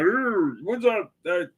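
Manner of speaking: high-pitched mock Scottish buddy; hammed-up Scottish voice; Scottish accent. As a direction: scoff in a put-on Scottish accent. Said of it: "this is my Scottish accent".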